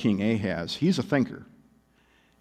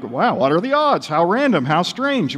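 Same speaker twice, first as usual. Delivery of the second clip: higher, singsong fake wonder; mock amazement; 4 semitones higher than usual. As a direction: marvel emptily at a coincidence. Mocking people who marvel at coincidence.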